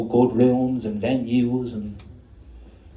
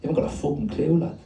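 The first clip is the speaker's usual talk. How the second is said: raised, confrontational taunt; snarling; 4 semitones higher than usual. Acted. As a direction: sneer it like a challenge. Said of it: "just a snarl".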